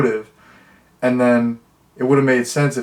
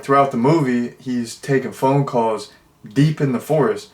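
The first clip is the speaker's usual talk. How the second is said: usual speaking voice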